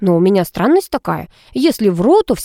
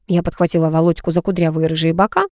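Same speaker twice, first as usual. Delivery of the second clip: plain reading voice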